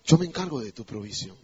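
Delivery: low, softened voice of God; God's reassurance. Acted. Preacher voicing God's promise to provide, quiet reassurance. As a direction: lightly voice God, low and assured. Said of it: "Dios dice".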